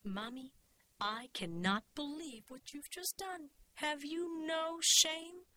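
indignant scolding, rising to loud and high; livid daughter. A narrator's reading. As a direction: build to a drawn-out, appalled question. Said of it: "I was too livid yet".

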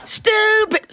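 high, shouted outrage; indignant shout. A narrator's reading. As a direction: shout the word back, scandalised. Fairy repeats the insult.

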